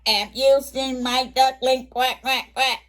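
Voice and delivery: a storybook duck voice, pleading and quacking; Mama Duck. Acted. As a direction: call out like an anxious mother duck. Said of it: "she's gone to a turtle".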